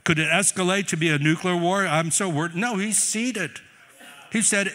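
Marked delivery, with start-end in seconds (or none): 0.0-2.5 loud, high mock panic about the news; mock-worried and shouting; mock worried Jesus. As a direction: ham up a fretting Jesus for the crowd. Preacher mocks a worried Jesus.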